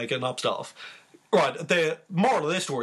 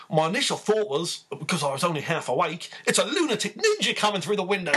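put-on Australian accent; 3 semitones higher than usual. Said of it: "my fine Australian accent".

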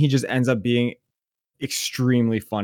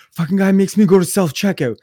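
imitated angry rant, pitched up; seething; 6 semitones higher than usual. Friend complaining about the cashier, imitated as seething. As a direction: gripe like a worked-up friend. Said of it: "he's angry as shit".

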